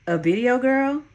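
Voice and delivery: incredulous. Acted. Incredulous question.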